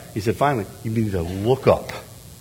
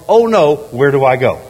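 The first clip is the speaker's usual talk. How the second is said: mock panic; 9 dB louder than usual. Panicked sinner hiding.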